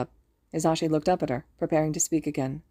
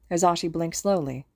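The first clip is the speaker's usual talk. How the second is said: ordinary delivery, nothing marked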